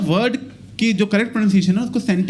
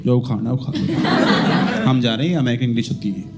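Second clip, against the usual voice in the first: defiant Americans; 8 semitones lower than usual. Retold or imitated. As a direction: shrug them off, lower. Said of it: "Americans कहते हैं".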